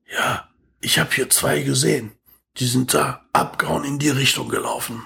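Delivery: lightly imitated drunk witness; drunk homeless man. Drunk street man reporting two runaways, lightly imitated. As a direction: put on a hint of a drunkard's voice. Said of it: "so ein besoffener Straßenpenner zu mir".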